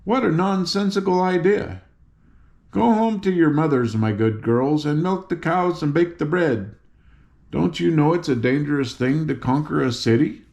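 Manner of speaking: a hint of a patronising guard; scolding guardian. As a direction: talk down to the girls.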